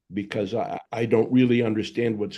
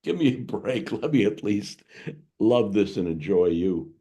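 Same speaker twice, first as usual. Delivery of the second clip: pleading confession; 2 semitones higher, 3 dB louder than usual. Retold or imitated. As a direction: beg for a break, owning up. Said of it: "you're acknowledging".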